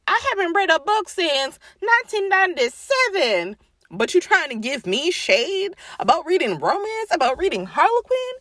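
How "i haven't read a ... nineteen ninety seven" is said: mock snob. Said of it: "You're out here being like".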